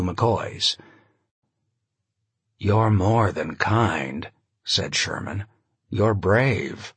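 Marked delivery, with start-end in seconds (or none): 2.6-6.9 intimate baritone. Acted. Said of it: "intimate baritone he used".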